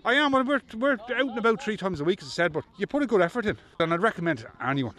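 breathless after the game; talking while catching breath. Real, not acted. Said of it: "And you're out of breath".

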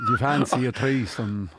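low, slow, deadpan proposition; droll, low-pitched chat-up voice; droll Midlands swinger. Acted. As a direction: drawl it out like an unromantic rural swinger. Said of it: "they're just the drollest".

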